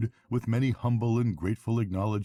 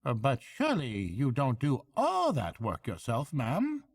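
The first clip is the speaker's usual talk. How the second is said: high, deferential question; respectful barge woman; 7 semitones higher than usual. A narrator's reading. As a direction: ask with mock respect. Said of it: "asked the barge woman respectfully".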